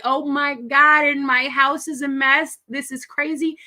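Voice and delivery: put-on exasperated mom drowning in kid chaos; frazzled mom. Mom swamped by four kids, exasperated. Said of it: "So I'm like".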